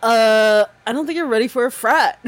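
frat bro voice. Pretend. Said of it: "talk like a frat bro".

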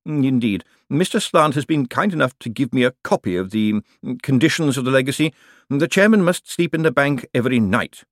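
a hint of a stiff announcer, humming before phrases; lightly voiced formal clerk. Bent presenting the suite to the master, lightly formal. Bent states the legacy's conditions.

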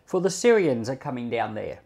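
measured, steady Bible reading voice; scripture reading. Acted. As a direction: read the chapter like a careful public reading. Reads Bible chapter aloud.

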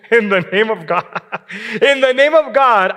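laughing through the words, a mild mocking demon. Preacher mimics the demon's plea to Jesus, laughing. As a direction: chuckle as you play the demon's plea. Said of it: "the demon is using".

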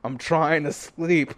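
slow, annoyed drawl; fed up with the ghost; mock annoyed, slow; annoyed complaint. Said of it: "I'm like".

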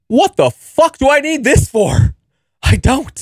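high, exasperated inner voice; mock panicked thought. High guy in coffee line questioning himself, high exasperated. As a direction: toss the line up high in disbelief.

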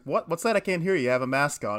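mock loud, can't-hear-you complaint; not hearing. Older pharmacy employee to masked customer picking up photos, not hearing. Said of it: "she's like".

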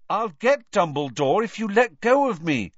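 high, loud, insistent; pressing, emphatic plea. A narrator's reading. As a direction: bargain urgently to be let go. Boy trying to free himself.

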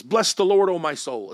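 emphatic, loud burst on Bless the Lord; double emphasis. Shown as a demonstration. Preacher showing the psalm's double emphasis, emphatic. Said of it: "It's almost like preaching".

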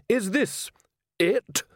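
high, slow indignant priest voice; angry priest. A narrator's reading. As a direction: scold like an outraged priest.

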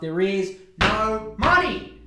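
slow, loud, word-by-word climax; hammed-up desperate yell; mock-desperate outburst. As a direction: hammer each word, rising to a shout. Climax of acted quote.

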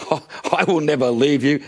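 mildly defiant vow. Acted. Peter pledging loyalty to Jesus, mildly defiant. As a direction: pledge it firmly, a touch of bravado. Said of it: "who defiantly told Jesus".

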